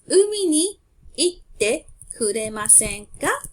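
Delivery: Umi ni itte kuremasen ka said slowly with a rising ka; slow model phrase. Shown as a demonstration. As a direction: pronounce each syllable slowly for the class. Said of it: "The second example is".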